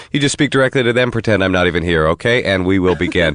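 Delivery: lightly voiced phone interpreter script, brisk and even; a hint of a call centre interpreter reading a memorized script; relay interpreter script. Shown as a demonstration. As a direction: rattle off the operator script. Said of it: "Would you like to hear me do one".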